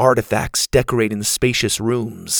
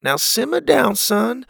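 father calming son; 12 semitones higher than usual. A narrator's reading. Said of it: "Pa said".

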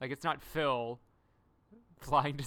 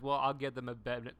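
Raven snapping; 5 dB louder than usual. Retold or imitated. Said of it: "And she goes".

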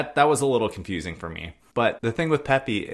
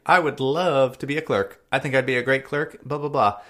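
lightly voiced eager job seeker, pitched up; Peppy; 5 semitones higher than usual. Errand boy asking for promotion, higher and eager. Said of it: "And he's like".

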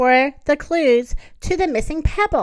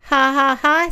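mocking laugh; 2 semitones higher, 4 dB louder than usual. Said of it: "said the voice".

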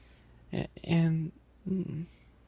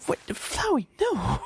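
alarmed shout; 10 semitones higher, slower than usual. Acted.

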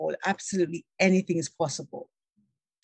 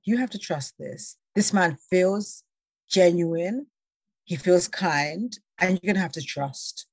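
self-reassurance. Retold or imitated. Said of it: "take a deep breath and I say".

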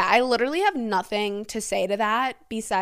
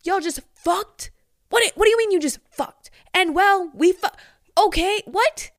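high, loud, flabbergasted questioning; loud incredulity; 9 semitones higher, 6 dB louder than usual. Real, not acted. Reader questioning a confessor about church sex, loudly incredulous. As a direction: demand an explanation in shocked disbelief.

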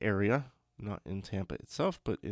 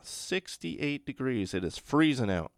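gasping in icy wind; 5 semitones higher, 7 dB louder than usual. Pretend. Joking about Florida cold.

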